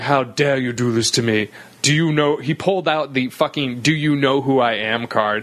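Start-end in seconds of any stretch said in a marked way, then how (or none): 0.0-2.4 indignant mock British accent; lightly outraged British accent. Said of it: "he had a British accent". 3.8-5.1 self-important mock British accent; indignant British accent, rising at the end. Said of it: "he had a British accent".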